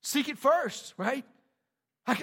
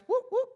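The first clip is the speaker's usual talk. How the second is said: two short high whoops; playful whoop; 14 semitones higher, 4 dB louder than usual. Acted. Preacher flagging that the kingdom is here, playful whoops. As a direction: pop out two quick high hoots. Imitated attention-getting noise.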